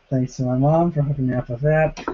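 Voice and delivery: talking while chewing; eating strawberries mid-sentence; mouth full. Real, not acted. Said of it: "I can't talk and eat at the same time".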